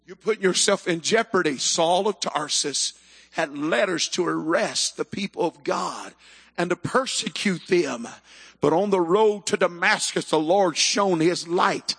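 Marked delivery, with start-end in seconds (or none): none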